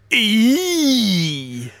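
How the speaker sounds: high squeaky little "Eee"; squeaky E-man cry. Retold or imitated. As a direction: squeal it like a tiny creature. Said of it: "he hated people going".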